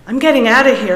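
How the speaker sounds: put-on loud, high cry of a fleeing boy; Larry screaming as he runs from class. A narrator's reading. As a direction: yell it as you bolt for the door. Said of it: "Larry screamed".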